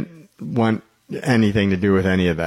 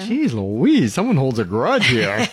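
mock amazement; 3 semitones higher, slower than usual. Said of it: "I'm like".

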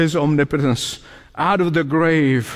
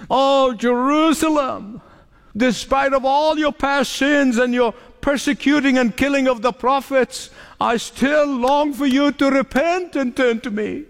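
higher-pitched, earnest retold plea; deep longing; 5 semitones higher than usual. Preacher voicing Jesus to the city, longing appeal. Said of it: "This deep longing on the heart of Jesus".

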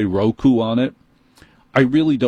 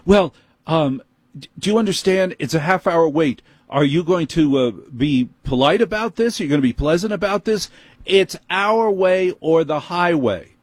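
higher, huffy store manager lecturing; amped-up manager; 7 semitones higher than usual. Retold or imitated. Apple manager scolds the customer, higher and huffy. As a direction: talk down to the customer like a petty boss.

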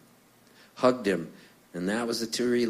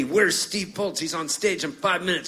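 calling out; 7 semitones higher than usual. Retold or imitated. Firemen hunting for Steve before his set, calling out. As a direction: shout for the missing act.

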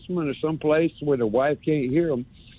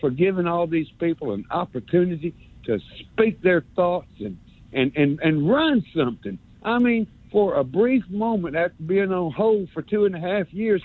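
put-on North Alabama accent; 3 semitones higher than usual. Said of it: "I love this North Alabama accent thing".

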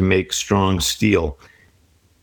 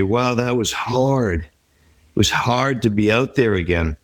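heavy sigh. Retold or imitated. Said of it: "with a heavy sigh".

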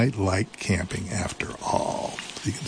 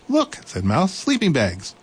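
high, bright little mouse voice; eager little mouse; 8 semitones higher than usual. Acted.

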